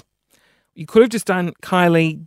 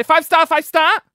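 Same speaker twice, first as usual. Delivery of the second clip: higher, louder imitation of a driver asking for stars; Uber driver voice; 8 semitones higher, 4 dB louder than usual. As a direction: mimic an Uber driver begging for five stars. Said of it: "a voice that I do".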